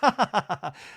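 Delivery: put-on chuckle in short bursts; imitated laugh. Retelling Taylor's reaction to Shep, mock laugh. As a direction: mimic her laughing. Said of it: "And she laughs".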